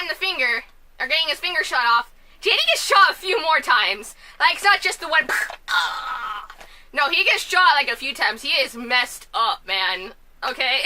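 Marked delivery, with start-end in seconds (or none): 5.3-6.6 mock pained groan. Imitates character being shot.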